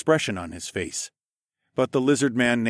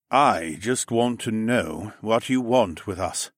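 weary voice; slower than usual. Acted. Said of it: "a weary voice came".

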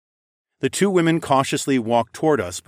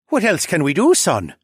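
put-on groaning old man, pitched up at the start; aching old father; 7 semitones higher, 5 dB louder than usual. A narrator's reading. Weary father asks his son, groaning. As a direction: ask it like a sore old dad. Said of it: "rubbed his back and groaned".

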